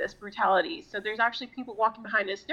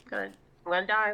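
rushed mock doom; much faster than usual. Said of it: "I'm like".

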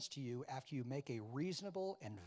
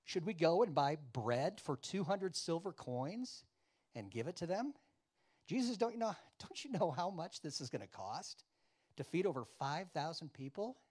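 mock disciples talking back, louder; mouthy comeback; 4 semitones higher, 5 dB louder than usual. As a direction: answer back with loud, incredulous questions. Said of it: "mouthy enough to come back and say".

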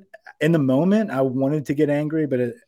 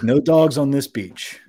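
slow, louder mock holler; retold holler, pitched up; 4 semitones higher, 5 dB louder than usual. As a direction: imitate a man hollering a warning. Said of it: "he just starts hollering".

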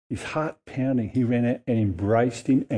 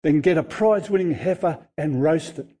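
excited orders; 3 semitones higher than usual. Acted. Father calling excitedly to servants.

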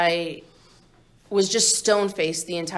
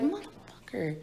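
incredulous outburst; 11 semitones higher than usual. Retold or imitated. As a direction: scoff at the cop in disbelief. Angry retort to the booking cop.

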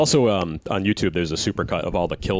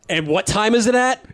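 goofy character voice; 5 dB louder than usual. Pretend. Reenacting movie characters.

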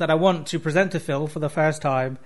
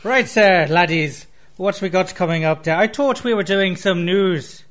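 put-on Irish accent. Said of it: "that charming other guy".

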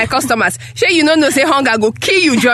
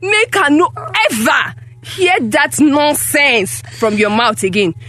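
stern, emphatic scolding; cross, insistent telling-off; angry warning. Acted. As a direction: lay down a warning to your child. Mother berates and warns daughter.

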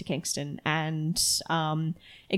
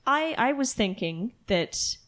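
awkward Xavier voice; 3 semitones higher, 3 dB louder, slower than usual. Acted. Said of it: "and he's like".

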